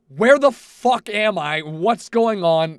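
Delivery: confused, half-mock morning panic; panicked waking. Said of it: "literally in a panic".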